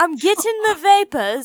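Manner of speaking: put-on British old-lady voice. Copying the other speaker's more British line: imitating a British-sounding old lady. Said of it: "it got more British at that one".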